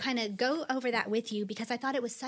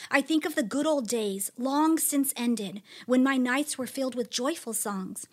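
lamenting scripture reading. Acted. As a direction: ask each question like a hurting soul. Reads psalm questions expressively.

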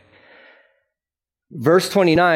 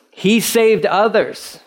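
slow, higher mock scoff; 5 semitones higher, much slower than usual. Preacher voicing the priests who mock Jesus, scoffing. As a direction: draw out the scoff. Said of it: "they scoffed".

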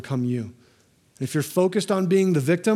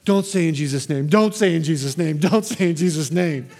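mock fussy God. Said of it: "up in heaven going".

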